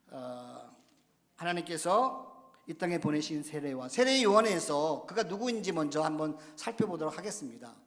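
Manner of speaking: ordinary talk, nothing marked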